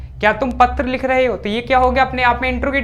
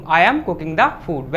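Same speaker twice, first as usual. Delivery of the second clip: very slow, word by word for the class; slow dictation; 3 semitones lower, much slower than usual. Shown as a demonstration. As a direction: spell it out slowly so students can write. Teacher dictating English sentence slowly. (बहुत धीरे, शब्द-दर-शब्द बोलना)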